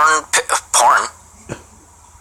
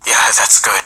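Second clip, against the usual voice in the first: ordinary talk, nothing marked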